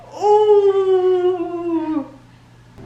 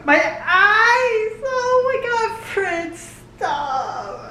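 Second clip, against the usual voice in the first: mock crying; 3 semitones higher, much slower than usual. Overwhelmed by character's charm.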